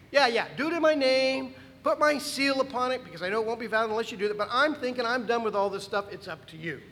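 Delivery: a fed-up Xerxes brushing the matter off; lightly voiced king, done with it all; dismissive king. Pastor voices a weary Xerxes.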